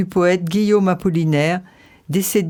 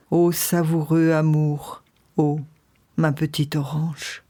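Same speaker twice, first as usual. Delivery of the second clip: measured poetry reading with long pauses; poem recitation; 3 semitones lower than usual. Acted. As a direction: recite it like a letter to a lost love. Host recites Apollinaire poem.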